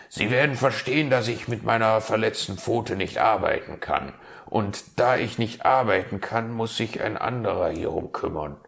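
eager fox. Acted.

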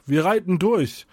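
excited call. A narrator's reading. Kunibert rallies the group to ride, calling out excitedly. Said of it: "rief Kunibert und sprang auf".

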